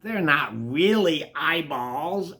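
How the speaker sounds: slow, stretched-out explanation; mildly soothing, drawn-out words; gentle reassurance. Acted. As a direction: explain it patiently. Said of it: "Alice tells Fergie gently".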